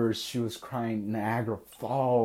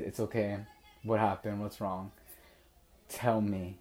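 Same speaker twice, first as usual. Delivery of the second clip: softer, soothing retold reassurance; comforting; 5 dB quieter than usual. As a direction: gently coax her to open up. Retold comforting of crying girlfriend.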